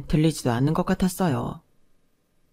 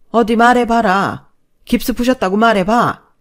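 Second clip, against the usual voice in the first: enraged mother-in-law; 4 semitones higher, 8 dB louder than usual. Acted. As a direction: dare her to say it, seething. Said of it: "대노한 시어머니 목소리가 들렸어요".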